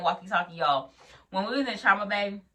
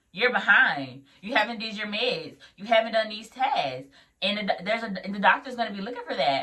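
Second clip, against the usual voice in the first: higher, louder mock telling-off; imitating a scolding supervisor; retold scolding; 3 semitones higher, 4 dB louder than usual. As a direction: rattle off the instructor's reproach, raised pitch.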